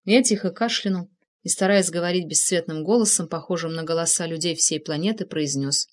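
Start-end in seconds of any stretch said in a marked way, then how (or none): none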